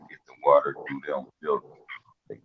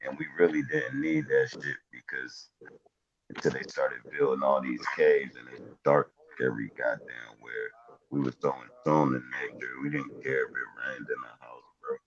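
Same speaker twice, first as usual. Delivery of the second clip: muffled mic, voice sounds far back; like talking from behind a wall. Real, not acted. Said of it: "muffled a little bit".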